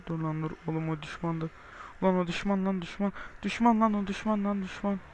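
loud, repeated alarm call; urgent warning. Real, not acted. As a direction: shout the warning over and over. Urgent warning during game.

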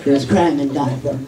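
low, slow gravelly hero growl; action hero voice. Retold or imitated. Toddler posing as hero, low slow Batman voice. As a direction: brood like Batman. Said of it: "stand like an action hero".

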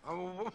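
acted sobbing; crying. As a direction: break into wordless sobs. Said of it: "What are you crying for?".

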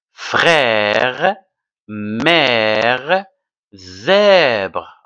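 "Frère, mère, zèbre" each held long on an open è; open-mouthed è. Shown as a demonstration. Teacher reads the word list, open è drawn out in "Frère, mère, zèbre". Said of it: "Avec la bouche ouverte".

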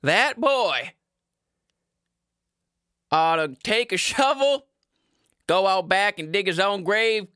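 put-on a fed-up dad blowing up about his boy; angry father. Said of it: "This is my father".

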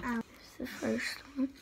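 whispering. Real, not acted. Quiet aside while eating.

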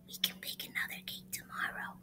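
soft secret whisper. Acted. Monkey telling a sibling the plan, whispering. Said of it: "One little monkey whispers".

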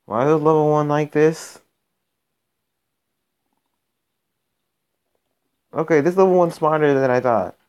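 can't believe how good they are; exasperated disbelief. Real, not acted. Baffled by strong level-one opponent.

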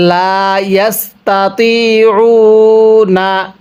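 slow, drawn-out Arabic recitation; ধীরে টেনে তিলাওয়াত; Quran recitation. Shown as a demonstration. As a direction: chant it slowly for the class to follow. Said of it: "আমার সাথে মিলিয়ে পড়ুন".

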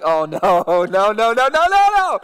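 rising, loud string of panicked no's; the sinking moment you know you're caught; dawning dread. Retold or imitated. Young man realizing the pastor saw him, loud panic.

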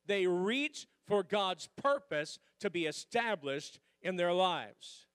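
slow, loud unison recital; congregation recital. Shown as a demonstration. Preacher leading the church in repeating the point, slow and loud. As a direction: lead the room through it word by word. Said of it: "Say it with me".

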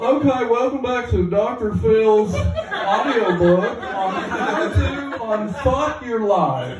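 slow audiobook host parody; drawn-out self-help narrator, a little high; Doctor Phil. Acted. Mock audiobook welcome to listeners, slow host voice. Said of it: "Doctor Phil will have that next book on audiobooks".

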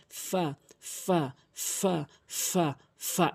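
airy f in ফা, each one drawn out; drilled fa. Shown as a demonstration. Teacher models the letter, slow toothy ফা. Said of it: "এভাবে উচ্চারণ করবেন".

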